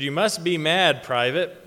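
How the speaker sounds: loud mock bellow at the private; retold bellow. Lieutenant bellowing at a soldier, loud mock bellow. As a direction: bark it like an angry officer. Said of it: "he bellowed".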